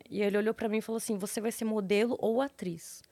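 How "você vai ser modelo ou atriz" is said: whispering psychic. Retold or imitated. Psychic's eerie line in story.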